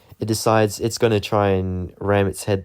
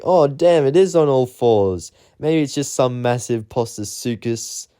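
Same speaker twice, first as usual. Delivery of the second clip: shocked exclaim; 5 semitones higher than usual. Retold or imitated. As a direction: blurt it out in surprise. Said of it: "And then we're like".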